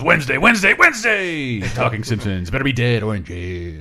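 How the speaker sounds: ad announcer voice. Pretend. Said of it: "I'm pitching a commercial".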